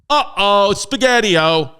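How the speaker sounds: put-on a silly childish oops; goofy uh-oh. Comic exclamation at ship sinking.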